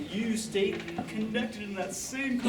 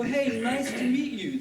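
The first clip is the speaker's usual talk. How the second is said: connected greeting; 5 semitones higher than usual. Shown as a demonstration. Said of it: "No, we wanna go".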